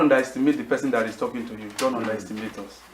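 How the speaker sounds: almost under the breath, pleading; hushed plea. Real, not acted. Pastor drops to hushed plea.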